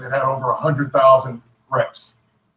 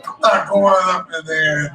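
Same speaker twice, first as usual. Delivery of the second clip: laughing through a mock refusal; half-laughed, amused dismissal; chuckling while retelling it.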